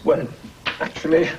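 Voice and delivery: put-on French accent. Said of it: "I love that French accent".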